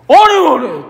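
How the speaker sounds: Peter denying. Retold or imitated. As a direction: wave off the question.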